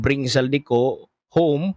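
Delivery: "Bring Saldico home" read slowly, each word leaned on, "home" punched; stress on the underlined words. Shown as a demonstration. Vlogger reading the president's underlined words, slow stressed reading. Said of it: "naka-underline po yung".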